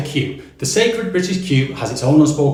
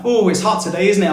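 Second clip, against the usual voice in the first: chatty weather greeting; 5 semitones higher than usual. Retold or imitated. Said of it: "expect greetings like".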